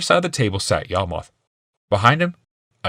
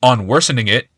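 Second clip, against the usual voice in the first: fuming; 4 semitones higher, 5 dB louder than usual. A narrator's reading. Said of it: "Glaceon fumed".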